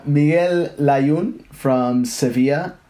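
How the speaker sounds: "Miguel Layún" slowly, the Spanish way; "Sevilla" with a Spanish LL, slowly; Spanish pronunciation. Shown as a demonstration. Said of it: "went into my American mode".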